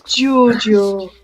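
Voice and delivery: drawn-out Geordie name; Geordie accent. Retold or imitated. Friend echoing the weekend joke, Geordie accent. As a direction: imitate a Geordie calling a name. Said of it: "Everything was Giorgio".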